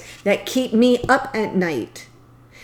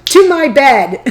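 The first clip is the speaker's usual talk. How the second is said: loud, punchy mock order; playful command; 3 semitones higher, 8 dB louder than usual. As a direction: call it out like a cheeky demand. Acted lusty command, then laughs.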